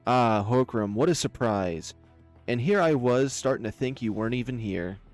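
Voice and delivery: understated venomous mock surprise; bitter venom. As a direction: toy with your prey. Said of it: "Her words held bitter venom to them".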